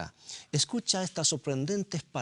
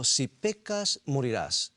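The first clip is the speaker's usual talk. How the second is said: voice of God; slower than usual. Retold or imitated. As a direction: proclaim it as God's command. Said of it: "La voz de Dios diciendo".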